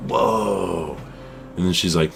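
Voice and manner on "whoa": put-on a short, falling, childlike "Whoa"; a lightly voiced child, mildly amazed; imitating a toddler's awe again. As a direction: voice the niece, impressed a second time. And she's like.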